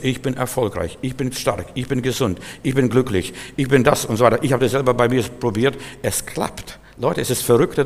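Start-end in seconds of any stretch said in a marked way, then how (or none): 0.0-4.1 affirmation. Shown as a demonstration. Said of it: "Wenn du das einundzwanzig Tage lang proklamierst".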